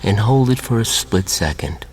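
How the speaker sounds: measured hypnotist voice with long pauses; hypnotic induction. Real, not acted.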